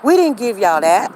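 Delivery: lightly voiced child demanding answers; nosy child. Neighbor's daughter questioning a playmate about toys, mock indignant kid. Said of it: "daughter, asked my daughter".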